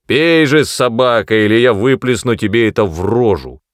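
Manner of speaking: loud, angry threat; menacing threat. Acted. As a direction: force him to drink. Threatening son. (злая угроза)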